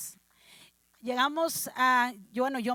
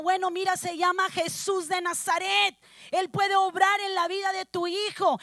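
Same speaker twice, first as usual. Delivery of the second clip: raised testimony voice, firm and emphatic; fervent preaching; 5 semitones higher, 3 dB louder than usual. Retold or imitated. Telling a mother about Jesús de Nazaret, fervent preaching. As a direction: testify with rising fervour.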